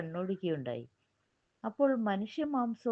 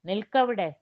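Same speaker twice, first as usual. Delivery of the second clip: demon bellowing, much louder; thunderous shout; 7 dB louder than usual. Acted. Demon stopping the fleeing three, thunderous shout. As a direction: roar it like thunder. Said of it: "ഒരു ഇടിമുഴക്കം കേട്ടു".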